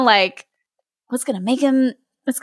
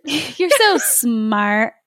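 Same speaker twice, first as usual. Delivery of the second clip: flirty ditz; 2 semitones higher, much slower than usual. Pretend. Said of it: "I'm twirling my hair".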